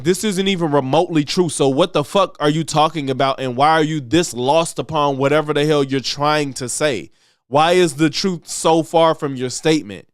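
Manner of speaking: full-voiced, insistent challenge; firm indignant rebuttal. Commentator showing an honest man's reply, firmly indignant. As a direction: push back plainly and firmly. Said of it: "I would be like".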